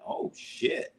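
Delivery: hushed whisper of dread; whispered oh shit. Retold or imitated. Fan watching the hit, whispered shock. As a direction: breathe it out under your breath. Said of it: "I was like".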